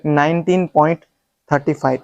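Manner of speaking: थर्टी फ़ाइव read as one number; wrong reading demo. Shown as a demonstration. Teacher warning against a mistake, demonstrated wrong reading. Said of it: "ये तरीका गलत है".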